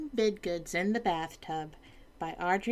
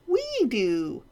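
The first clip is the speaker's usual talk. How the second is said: court in chorus; 6 semitones higher, 4 dB louder than usual. Acted. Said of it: "cried the court".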